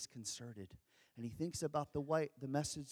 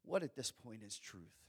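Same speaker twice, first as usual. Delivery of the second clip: weary and resigned; 3 semitones lower, 5 dB quieter than usual. Pretend. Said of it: "weary and resigned".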